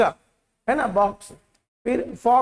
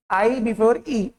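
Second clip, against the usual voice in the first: आई before ई said slowly with ई stretched; slow rule recital; much slower than usual. Shown as a demonstration. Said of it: "हमेशा क्या होता है".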